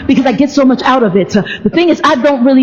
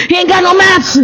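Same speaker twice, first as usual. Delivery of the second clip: mock crying; 8 semitones higher than usual. Mock lament over no maps.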